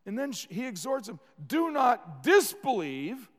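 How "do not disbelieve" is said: exhorting. Acted. Jesus exhorts Thomas.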